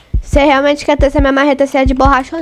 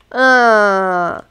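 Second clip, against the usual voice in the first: ordinary talk, nothing marked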